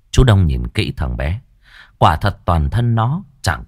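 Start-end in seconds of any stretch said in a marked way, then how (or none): none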